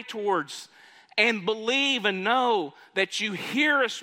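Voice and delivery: high-pitched, fervent preacher's prayer; proclaimed prayer. Acted. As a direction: lift the voice in public prayer. Preacher voices Solomon's prayer.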